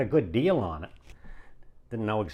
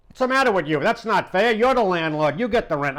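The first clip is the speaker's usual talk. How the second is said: mock indignant protest; 6 semitones higher than usual. Sal protesting the deal.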